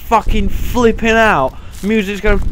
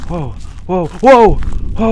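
startled whoa; 3 dB louder, much slower than usual. Real, not acted. Startled by game event.

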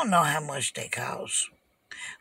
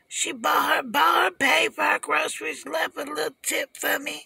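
loud, outraged, pitched up; indignant shout; 8 semitones higher, 4 dB louder than usual. Real, not acted. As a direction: shout it like it's unbelievable. Outraged rant about the tip.

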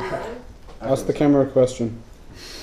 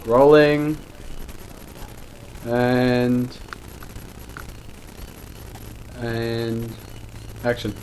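rolling and action said in a lower, settled pitch; lower slate call; 4 semitones lower, 5 dB quieter, much slower than usual. Shown as a demonstration. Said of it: "we'll get that again 'cause I was a bit too high".

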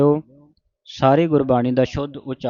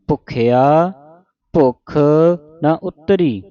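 word by word, gaps after ਭੁੱਖਿਆ and ਭੁੱਖ; pause after ਉਤਰੀ; 2 semitones higher than usual. Shown as a demonstration. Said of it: "ਇੱਥੇ ਵਿਸਰਾਮ ਹੈ". (ਉਤਰੀ 'ਤੇ ਵਿਸਰਾਮ)

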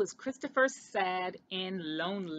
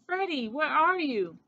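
high, loud, drawn-out wail; wailing call; 6 semitones higher, 6 dB louder than usual. A narrator's reading. Christopher searching for missing Freddy, wailing. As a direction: call out slowly in a rising wail. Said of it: "wailed Christopher".

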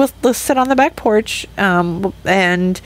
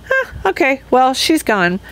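mock shrug; 4 semitones higher than usual. Mocking friends' shrug.

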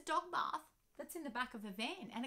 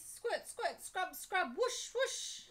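playful sound words; 8 semitones higher, 4 dB louder, much slower than usual. Acted. Car wash sounds.

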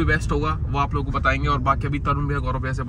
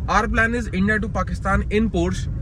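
very slow, dramatic plan reveal; slow announcement; 3 semitones higher, much slower than usual. Real, not acted. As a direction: spell out the plan slowly for effect. Announcing plan slowly to camera.

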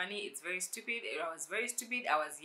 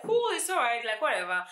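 forced breezy; 6 semitones higher, 7 dB louder than usual. Retold or imitated. Forced okay about sitting in the back.

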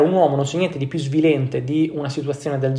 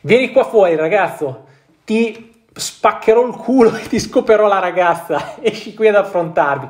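louder, higher, a tough guy calling him out; mock thug shout; 5 semitones higher, 4 dB louder than usual. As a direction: bark it like a bully at the door. Reading thug's threat from letter.

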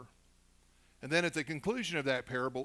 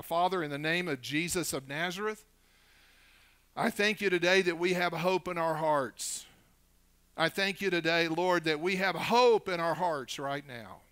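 prayer; 4 dB louder than usual. Real, not acted. Leads a prayer.

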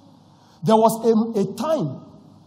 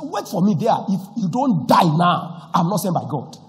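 angry threat; 6 dB louder than usual. Retold or imitated. Preacher threatens the man at his door, angry and loud. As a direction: let the anger build as you warn him. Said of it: "I was going with that anger".

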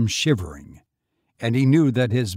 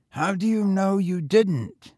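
put-on higher, eager boy voice; young boy; 8 semitones higher than usual. A narrator's reading. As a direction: pitch up for a street boy. Boy speaks.

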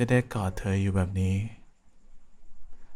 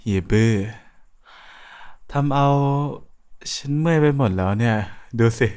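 loud whiny complaint; 5 dB louder than usual. Acted. Whining about a long wait.

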